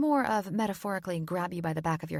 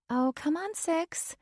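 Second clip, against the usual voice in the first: retorting friend; 11 semitones higher, 4 dB louder, slower than usual. A narrator's reading. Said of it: "Everly retorted".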